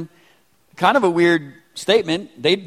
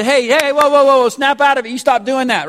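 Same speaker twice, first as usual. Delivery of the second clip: put-on parent redirecting kids; 5 semitones higher, 4 dB louder than usual.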